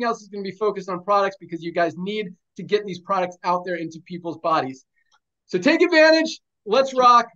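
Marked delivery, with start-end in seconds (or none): 5.4-7.3 hype call. Real, not acted. Boss rallies staff for the next two weeks, loud hype shout. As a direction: pump up the room. Rallying the team to push.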